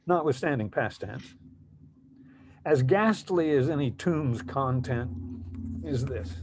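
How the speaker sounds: deliberate recital with weighted pauses; poetry reading. Acted. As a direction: read your poem to an audience, phrase by phrase. Poet reads second poem aloud.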